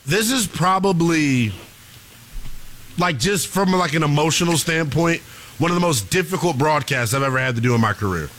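low, weary and halting; drained sports fan, sinking low; distraught. Real, not acted. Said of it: "I am distraught".

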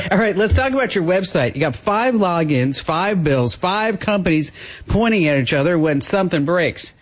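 upbeat sponsor read. Acted. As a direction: pitch the sponsor quickly. Host reads sponsor ad.

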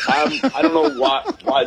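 high laughing cry of disbelief; laughing squeal. Real, not acted. New father laughing about not feeling ready for a child. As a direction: laugh it out in mock despair. Laughing at his parenting anxiety.

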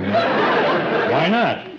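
mock-seductive, swooping why not; put-on charm. Host coaxing the bride for a kiss, put-on charm. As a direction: lay on the charm playfully. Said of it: "So I'll throw on a charm here".

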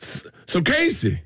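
slow, high mocking Black accent as a talk host; racist Black accent. Comic mocks a host interviewing guests in a Black accent. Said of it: "now I'm doing a racist black accent".

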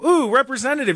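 mock impressed crowd. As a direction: coo like an impressed voter. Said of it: "everybody's gonna go".

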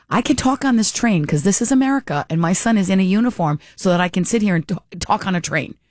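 mildly adamant retold retort; a little feisty. Passenger defending her right to talk on the train, mildly feisty. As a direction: stand your ground, a touch of feistiness. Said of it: "I got a little feisty".

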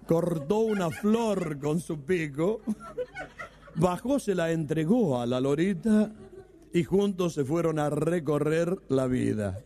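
a slow proud recitation; slow careful recital. Retold or imitated. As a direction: recite like a cured patient proud of each word. Cured friend recites slowly.

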